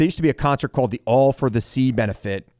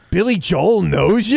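amazed question; 5 semitones higher, 4 dB louder, slower than usual. Retold or imitated. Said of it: "turns to me and goes".

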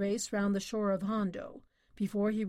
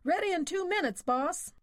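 bellowing; 9 semitones higher than usual. Acted. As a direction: bellow it across the yard. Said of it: "Roy Bender was bellowing".

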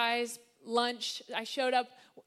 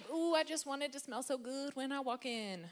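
mock dreamy wife; 3 semitones higher, 5 dB quieter than usual. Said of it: "I'm just like".

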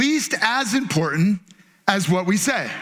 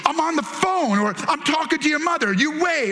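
higher-pitched, stretched-out rebuke; exasperated dad; 5 semitones higher than usual. Retold or imitated. Dad on the phone to interrupting son, exasperated. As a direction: put the kid off, pitched up.

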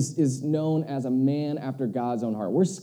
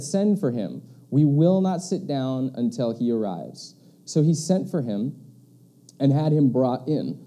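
scripture reading; 4 dB louder than usual. Acted. Reads the scripture passage aloud.

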